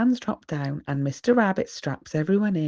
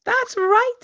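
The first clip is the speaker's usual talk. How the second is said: smiling approval; 5 dB louder than usual. A narrator's reading. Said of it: "Mister Rabbit smiles".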